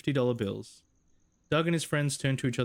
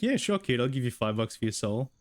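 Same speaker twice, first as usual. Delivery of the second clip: mock imitation. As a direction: tease him as a soul-buying hustler. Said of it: "You're like".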